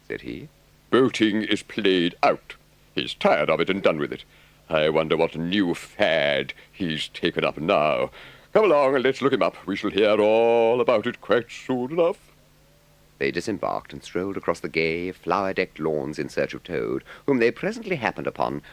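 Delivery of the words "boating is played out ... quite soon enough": knowing, slightly higher Rat; Rat's voice. A narrator's reading. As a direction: Rat amused by his friend's latest craze. Rat describing Toad's fads.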